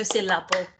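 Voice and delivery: syllable said beat by beat; syllables spelt out. Shown as a demonstration. Teacher confirming the answer, syllable in three beats. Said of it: "three is good".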